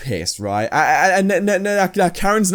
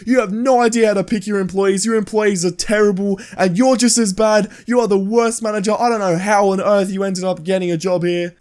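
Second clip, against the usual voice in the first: higher-pitched tirade without real shouting; mock screaming Karen; 4 semitones higher than usual. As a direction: imitate a customer berating the manager. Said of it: "just screams at him and starts saying".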